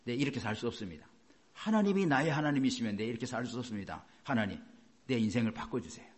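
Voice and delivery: soft, low prayer to God; acted hushed entreaty; clinging plea. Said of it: "하고 매달렸습니다".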